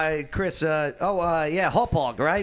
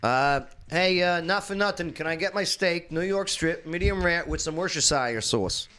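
put-on Jersey accent. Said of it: "as a Jersey".

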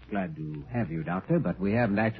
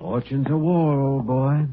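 mock British; 4 semitones higher, 4 dB louder, slower than usual. Mocking the Englishman's phrasing.

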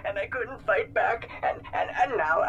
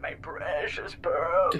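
mock despair; slower than usual. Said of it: "Calcifer clutching his pearls".

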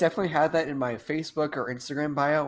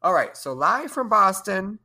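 show host intro; 4 dB louder than usual. Pretend.

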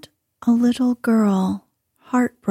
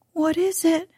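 put-on high frightened boy's cry; a boy's startled, fearful question; 7 semitones higher, 3 dB quieter than usual. A narrator's reading. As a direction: cry it out high in sudden fear. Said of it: "he cried again".

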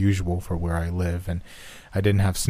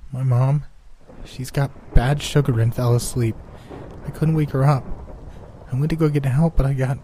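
put-on crying child; 6 semitones higher than usual. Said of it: "he was crying now".

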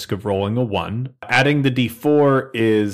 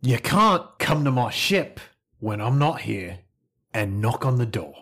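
stern ship owner confronting an intruder; 3 dB quieter than usual. Acted.

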